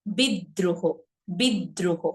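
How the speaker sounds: বিদ্রোহ split as "bid-droho"; দ্বিগুণ দ. Shown as a demonstration. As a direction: double the d in বিদ্রোহ. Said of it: "same ভাবে". ("বিদ্রোহ" বলো বিদ্-দ্রোহ)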